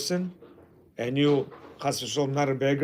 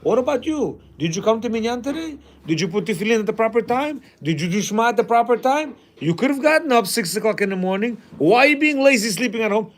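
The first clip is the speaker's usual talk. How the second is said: fast, scolding challenge, a touch higher; voicing Hashem's rebuke; 4 semitones higher, faster than usual. God scolding the lazy husband, fast scolding. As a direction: rattle off the accusations quickly, scolding. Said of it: "Hashem says".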